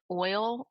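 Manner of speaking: "oil" said the Maryland way, with a rising tune. Shown as a demonstration. Showing the co-host how she says "oil" in a Maryland accent. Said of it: "and when I say, like".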